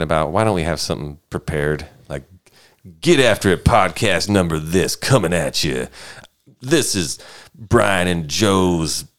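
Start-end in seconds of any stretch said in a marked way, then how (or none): 3.0-5.9 hyped podcast intro voice; punchy radio-style opener; announcer intro. Acted. 6.6-9.1 drawn-out announcer opening; slow intro. Acted.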